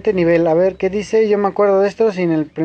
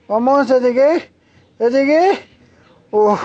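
excited relief; 6 semitones higher than usual. Real, not acted. Gamer landing a hard jump, excited cheer. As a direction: cheer yourself on as you land.

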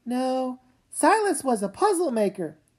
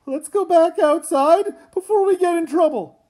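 anxious plea; 3 semitones higher, 6 dB louder than usual. Acted. Nervous sibling urging to leave.

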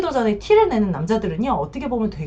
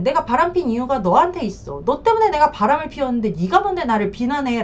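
mildly raised, defensive retort; retold indignation; 3 semitones higher than usual. Husband turning the blame on his wife, mildly indignant. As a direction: push back with mock indignation. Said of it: "반감이 되니까 이혼 요구를 버럭버럭".

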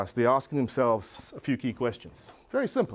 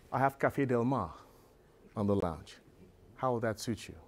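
low, soft, measured offer; very calm; 5 semitones lower, 7 dB quieter than usual. Retold or imitated. Driver offering passenger another lounge album, very calm. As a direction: imitate the driver's unruffled, hushed courtesy. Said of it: "looks at me very calmly".

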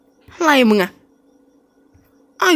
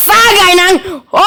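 hyped shout; 5 semitones higher than usual. Shown as a demonstration.

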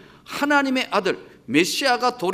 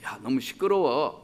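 hushing rebuke; 8 semitones lower, 6 dB quieter than usual. Acted. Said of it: "소리 지르니까".

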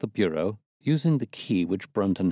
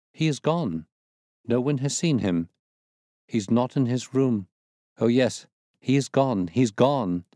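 mildly hysterical insistence; a maid edging toward hysteria, lightly voiced; 3 semitones higher than usual. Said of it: "shriek after shriek of laughter".

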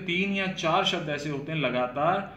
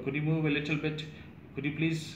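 polite request; much slower than usual. Shown as a demonstration. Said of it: "आपको बस में जगह मांगनी है".

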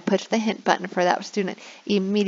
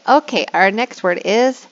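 teacher demo; 2 semitones higher, slower than usual. Shown as a demonstration. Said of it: "I would say".

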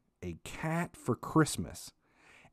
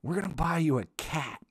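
higher mock mom voice, teasing; mom's teasing cat threat, higher put-on voice; 6 semitones higher than usual. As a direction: tease him as mom in a higher voice. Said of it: "my mom's like".

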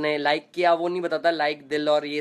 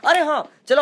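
higher and louder burst of realisation; sudden excitement; 9 semitones higher, 8 dB louder than usual. Real, not acted. Streamer suddenly hits on today's theme, excited burst. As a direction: jump in with a sudden bright idea.

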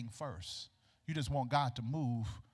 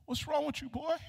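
concerned mother; 12 semitones higher than usual. Acted. Mother questions coughing son.

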